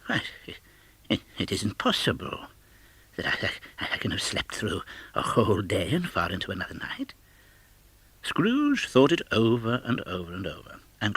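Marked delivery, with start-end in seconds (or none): 0.0-7.1 hushed, halting, disbelieving murmur; an old miser muttering to himself in shock; bewildered old man whisper. Acted. Scrooge bewildered in the dark.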